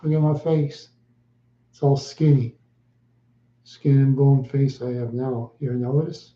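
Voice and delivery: ordinary talk, nothing marked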